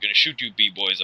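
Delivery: put-on African American accent; cartoon tough-guy in African American accent; caricatured African American street accent; Knuckles. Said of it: "Knuckles' black voice again".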